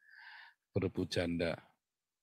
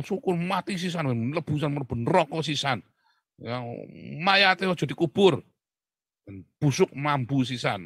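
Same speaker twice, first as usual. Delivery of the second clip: louder, spiteful Javanese curse; mock spiteful cursing; 2 semitones higher, 5 dB louder than usual. Pastor mimicking a gloating curse at an enemy, louder. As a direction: curse the fallen enemy with glee. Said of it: "lu kutuk lagi kan jadinya".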